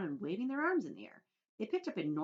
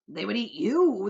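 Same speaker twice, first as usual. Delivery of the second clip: grinning tease; 4 semitones higher, 14 dB louder than usual. Acted. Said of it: "the centipede answered, grinning".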